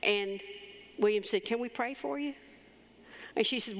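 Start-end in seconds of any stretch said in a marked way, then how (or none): 1.4-2.3 higher, tender asking voice; retold caring question; gentle offer. Retelling offer of prayer to waitress.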